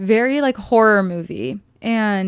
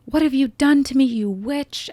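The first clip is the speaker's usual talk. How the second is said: raised, higher mock yell at the witch; mock scream; 5 semitones higher than usual. Boq screaming at Nessa, a hammed-up yell. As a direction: throw it at her like a panicked yell. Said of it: "he screams at her".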